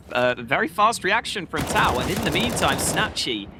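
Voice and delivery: excited play-by-play call; esports caster. Acted. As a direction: call the AWP fight live. Live play-by-play casting.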